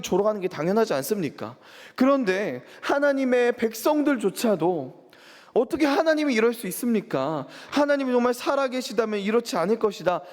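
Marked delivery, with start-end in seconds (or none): 5.5-10.2 higher, indignant retold grumbling at God; a hint of scornful grumbling from God's own people; mocking complaint. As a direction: voice the doubters' bitter jeer, lightly acted. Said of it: "계속 조롱했다는 거예요".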